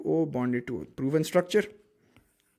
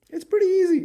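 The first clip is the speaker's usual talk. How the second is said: high squeak; 14 semitones higher, 6 dB louder, faster than usual. Acted.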